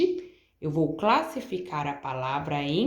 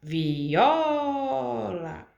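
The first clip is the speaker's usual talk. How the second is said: Viola with the O stretched long; prolonged stressed syllable; 2 semitones higher than usual. Shown as a demonstration. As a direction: draw out the O in Viola. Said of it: "Qual sílaba que eu prolonguei?".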